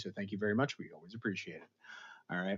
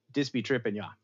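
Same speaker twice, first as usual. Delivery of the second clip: put-on terrible Jamaican accent. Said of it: "that was my terrible Jamaican accent".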